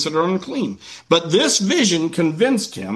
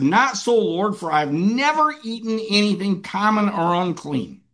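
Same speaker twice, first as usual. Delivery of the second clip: protesting Peter; 4 semitones higher than usual. Acted. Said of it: "He said".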